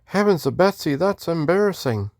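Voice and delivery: high-voiced Texan greeting in a Western accent. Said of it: "I was doing a Western accent".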